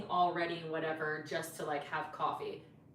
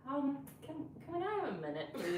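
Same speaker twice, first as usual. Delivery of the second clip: retold awkward plea; 8 semitones higher, 4 dB quieter than usual. Mock polite plea to waiter.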